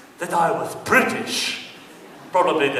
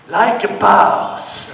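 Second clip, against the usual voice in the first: like a boss; 3 semitones higher, 6 dB louder, slower than usual. Acted. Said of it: "punchline shout".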